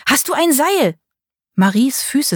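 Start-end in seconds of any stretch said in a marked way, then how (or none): 0.1-1.0 high shriek for a rope. A narrator's reading. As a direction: shriek it out in panic. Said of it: "kreischte er".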